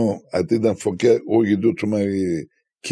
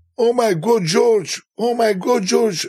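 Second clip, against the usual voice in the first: excited women screaming like fans, very high; 13 semitones higher than usual. Retelling a meeting while playing music, imitating women screaming. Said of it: "Women, they were just screaming".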